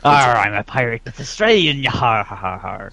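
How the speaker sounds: hammed-up pirate growl with a laugh; lightly voiced laughing pirate; mock pirate. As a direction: play a silly pirate. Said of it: "Australians are pirates now".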